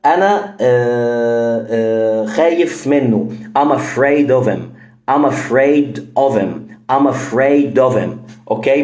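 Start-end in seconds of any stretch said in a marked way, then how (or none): 3.6-8.1 him as em, afraid-of-em; reduced him; dropped H. Shown as a demonstration. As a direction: drop the H, of him becomes ov-em. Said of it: "بدل ما أقول".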